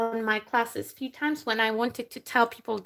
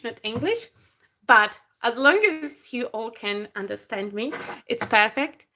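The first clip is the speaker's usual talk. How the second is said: ordinary talk, nothing marked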